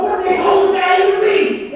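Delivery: retold exasperation. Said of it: "I'm like".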